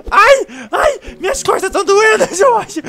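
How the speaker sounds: pained cries. Acted. Clown cries out under attack.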